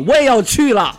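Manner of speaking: high-pitched imitated yell; hammed-up urgent shout; mom's loud cry. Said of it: "我妈也大声一喊".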